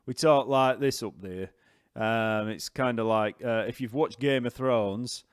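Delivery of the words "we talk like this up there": broad Yorkshire demonstration; lightly exaggerated Yorkshire speech; Yorkshire accent. Shown as a demonstration. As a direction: show off a northern Yorkshire accent. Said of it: "it's a Yorkshire accent".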